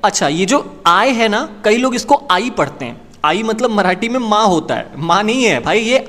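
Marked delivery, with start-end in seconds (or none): none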